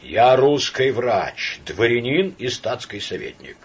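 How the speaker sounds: slow, loud, word by word; measured, deliberate. Acted. Samoylenko asserting his rank to Laevsky, measured. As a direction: lay out each title with weight. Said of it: "сказал с расстановкой".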